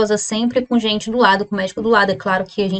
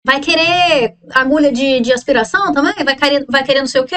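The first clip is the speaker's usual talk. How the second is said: higher, brisk imitation of the nurse, a touch rushed at the end; lightly voiced nurse; 3 semitones higher, faster than usual. Retelling the nurse offering supplies, lightly voiced higher and brisk. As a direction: play the helpful nurse lightly, rattling off questions. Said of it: "Aí ela falou".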